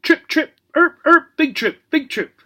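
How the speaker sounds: very high parrot squawk; shrieking parrot. A narrator's reading. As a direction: screech it like a parrot. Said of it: "kept shrieking out".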